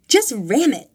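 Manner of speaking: loud, high, eager command; urgent shout. A narrator's reading. Tiffany shouting at the driver behind the SUV. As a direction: yell the order at the driver. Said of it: "Tiffany shouted".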